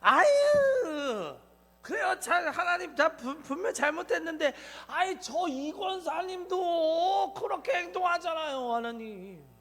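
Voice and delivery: loud, laughing mock whine; a member blaming the deaconess in prayer; whining excuse. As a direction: wail out excuses to God. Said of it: "예화 속에 나타날 수밖에".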